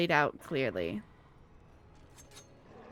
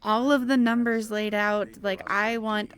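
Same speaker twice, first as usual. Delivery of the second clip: heated rant; 3 semitones higher than usual. Real, not acted. Ranting about wanting clear numbers.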